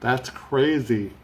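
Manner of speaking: talking through a yawn; stretched words mid-yawn. Real, not acted. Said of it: "I'm yawning".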